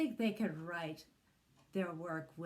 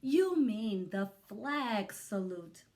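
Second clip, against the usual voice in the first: mock shout; 4 semitones higher, 6 dB louder, slower than usual. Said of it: "we shout".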